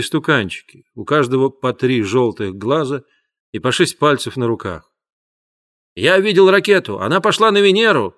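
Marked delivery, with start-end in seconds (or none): 6.0-8.1 put-on boy shouting excitedly, higher and louder. A narrator's reading. Boy shouts to family about the rocket, excited. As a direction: blurt it out, thrilled by the rocket. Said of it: "кричал Паоло".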